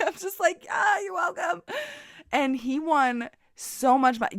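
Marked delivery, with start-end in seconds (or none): 0.7-1.6 higher, shouted, put-on voice; shouted thanks. To the cheering crowd, a high shouted diva thank-you. Taking credit for the win.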